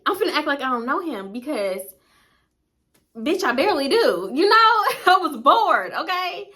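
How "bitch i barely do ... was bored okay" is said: higher, laughing self-defence; laughing admission. Real, not acted. Admitting she barely knows him, laughing defensively. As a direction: blurt it out high, breaking into a laugh.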